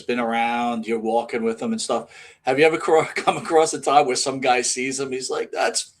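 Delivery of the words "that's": high-pitched mock scream, loud; imitated screaming fan. Some guy spotting the wrestler and hating him, mock screaming. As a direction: yell it like an outraged heckler, hammed up. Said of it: "starts screaming at him".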